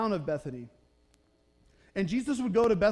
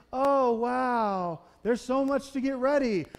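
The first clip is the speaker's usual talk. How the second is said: higher, pointed, sing-song sigh of complaint; passive-aggressive hint; 4 semitones higher, 4 dB louder, slower than usual. Retold or imitated. Martha walks past Mary, pointedly hinting she needs help. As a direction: drop a loud hint for your sister to hear. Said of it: "dropping those little passive-aggressive hints".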